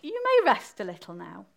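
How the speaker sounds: mildly gentle, queenly permission; kindly. Acted. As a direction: let the runner rest, softening a touch. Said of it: "and said kindly".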